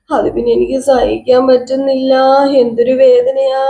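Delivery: slow, drawn-out mock moaning; acted pained whine.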